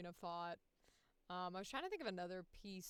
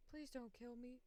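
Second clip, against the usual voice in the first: softer, slightly higher plea; pleading character; 4 semitones higher, 6 dB quieter than usual. Retold or imitated. Song character begging for life, in a softer plea. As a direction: beg softly, a small voice. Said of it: "And then he goes".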